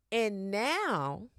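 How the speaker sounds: whispered and drawn out for effect; a hushed "and now" before the twist; dramatic whisper. Acted. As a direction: drop to a hushed, ominous whisper.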